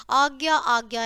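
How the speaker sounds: आज्ञा said as aa-gyaa; correct pronunciation. Shown as a demonstration. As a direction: model आज्ञा clearly. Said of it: "इस तरह से होगी". (आज्ञा का शुद्ध उच्चारण)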